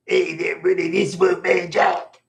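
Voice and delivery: a rusty, half-working attempt at the gravel DJ growl; a first try at Wolfman Jack that falls short; Wolfman Jack impression. Fan tries his old radio DJ voice, lightly done. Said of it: "I'm a big fan of Wolfman Jack. I used to talk like him".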